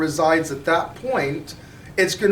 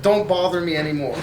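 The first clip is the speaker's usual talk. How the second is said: exasperated clerk; 5 semitones higher than usual. Acted. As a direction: spell it out like a worn-out clerk. Exasperated clerk explains the price.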